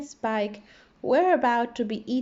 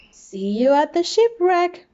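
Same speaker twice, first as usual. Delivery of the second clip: loud, higher call ahead; 8 semitones higher, 8 dB louder than usual. A narrator's reading. Danny calls back to little fish, loud and high. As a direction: shout it back over the shoulder. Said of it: "called Danny".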